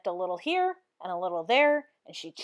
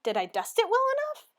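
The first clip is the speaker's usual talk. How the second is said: proud maid voice; 12 semitones higher than usual. A narrator's reading. Amelia proud of her dusting.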